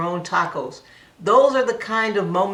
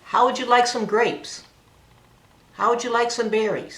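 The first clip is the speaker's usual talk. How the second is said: put-on redirecting child; 5 semitones higher than usual. Shown as a demonstration. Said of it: "we do a redirect".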